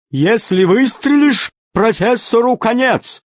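high, slow jolly villain; fat pirate voice. Acted. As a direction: play the grinning pirate boss. Tolstyak threatens.

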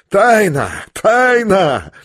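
high, ringing cries; wild, high exclamation; exalted cry. A narrator's reading. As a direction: proclaim it feverishly to the room. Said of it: "крикнул он, смеясь своим странным смехом".

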